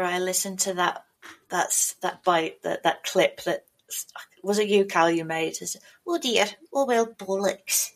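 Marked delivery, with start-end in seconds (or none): 6.1-7.9 mock your own cringey nasal delivery; nasal, resigned "oh well" mimicry; nasal catchphrase. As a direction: imitate a nasal recorded catchphrase.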